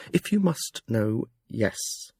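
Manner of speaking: restrained and curt; tight. Acted. The fool answering Jekk's questions, tightly. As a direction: keep it short through a tight throat. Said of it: "He spoke tightly".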